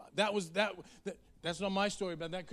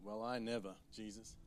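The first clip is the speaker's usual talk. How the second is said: a low, much softer huffy woman's reply; indignant woman; 9 semitones lower, 12 dB quieter than usual. Acted. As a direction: scoff at him, offended. Woman's indignant retort voiced.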